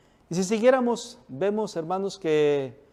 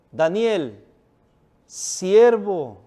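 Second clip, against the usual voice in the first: calling out sadly; 3 semitones higher, 6 dB louder, much slower than usual. A narrator's reading. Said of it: "llamó a voces a Daniel con voz triste".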